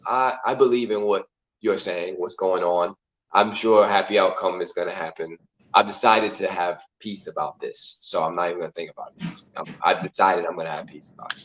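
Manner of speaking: low, soft voice of acceptance; trusting, at peace. Acted. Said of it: "And trust is like".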